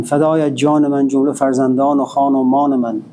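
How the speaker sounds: fast, rhythmic recital of Persian verse from memory; poem recitation. Acted. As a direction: rattle off the Masnavi verses in a flowing chant-like rhythm.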